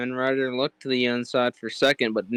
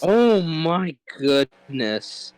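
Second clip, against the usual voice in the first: slow, higher, long stretched disbelief; stunned, drawn out; 5 semitones higher, much slower than usual. Real, not acted. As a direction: let it hang in disbelief. Echoes partner, stretched.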